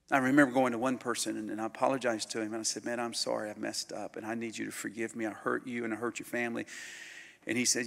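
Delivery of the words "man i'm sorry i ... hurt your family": softer, sincere apology. Retold or imitated. Preacher recalling his apology to the man, soft. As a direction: say it low and humble.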